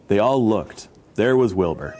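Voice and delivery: expressive picture-book narration; story read-aloud. A narrator's reading. Storyteller reading about elephants to children, lively narration.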